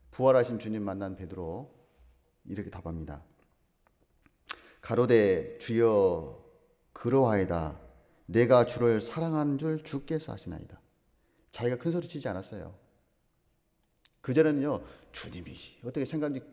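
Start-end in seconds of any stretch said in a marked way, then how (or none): 4.8-10.8 Peter's humble answer. Acted. Peter answers in archaic scripture.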